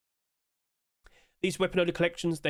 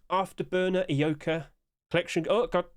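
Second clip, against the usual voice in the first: about to sneeze; 3 semitones higher than usual. Real, not acted. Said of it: "Sorry, I'm gonna sneeze".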